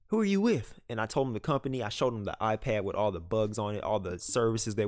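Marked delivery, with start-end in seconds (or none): 0.1-0.8 big country dude, pitched up and pushy; imitating the big bearded country dude's challenge. Country dude demanding what the narrator is doing there. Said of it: "big country dude".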